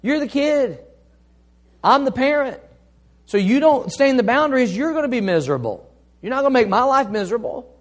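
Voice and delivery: put-on firm talk to his kids. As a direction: set the boundaries for the kids, sternly. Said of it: "I tell my kids all the time".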